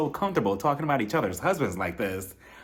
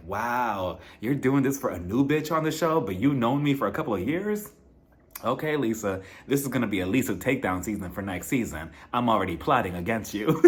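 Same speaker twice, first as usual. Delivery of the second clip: mock bitter Whitney; 4 semitones lower than usual. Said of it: "she's looking at her like".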